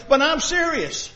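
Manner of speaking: calm earnest reminder; slow earnest insistence. Acted. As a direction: lay it down slowly and firmly. God insisting to Adam.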